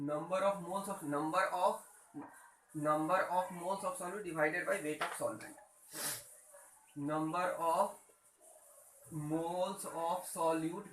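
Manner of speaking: slowed right down, word by word for notes; slow dictation. Shown as a demonstration. Teacher dictating the formula to students, slow and spaced. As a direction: dictate it slowly so students can write.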